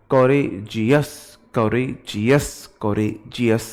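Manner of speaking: कोरेजियस slowly split into its syllables; with gaps. Shown as a demonstration. Teacher shows students the gaps in courageous. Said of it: "आपने gap लिया".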